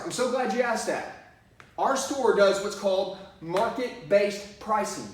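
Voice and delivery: slow, assured script delivery; confident reply. Shown as a demonstration. Salesman answering a price question with confidence. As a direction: sound sure and believable. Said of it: "This is what I need you to memorize".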